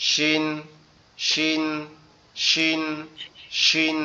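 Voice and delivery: শিন said with a firm, hard sound. Shown as a demonstration. Teacher drilling students on শিন, hard firm sound. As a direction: press শিন out firmly. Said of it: "শক্ত আওয়াজে".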